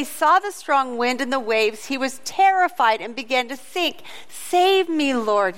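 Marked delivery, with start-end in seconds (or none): 4.3-5.5 a touch raised, urgent plea; mild mock shout. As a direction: call it out half-heartedly like a sinking man. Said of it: "he shouted".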